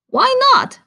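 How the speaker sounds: high, loud surprised "why not"; surprised question. Acted. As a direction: ask it in sudden surprise, voice shooting up. Frog asks Toad, surprised.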